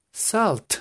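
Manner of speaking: "Salt" as sal plus a final t; T at the end. Shown as a demonstration. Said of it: "ponerle una T al final".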